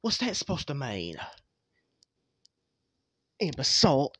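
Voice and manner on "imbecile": loud sneering insult. Acted. Springtrap insults the others, loud and scornful. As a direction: spit the word out loud.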